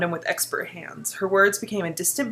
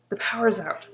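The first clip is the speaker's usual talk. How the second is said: whisper; 3 semitones higher than usual. Real, not acted. Whispered guess about the story.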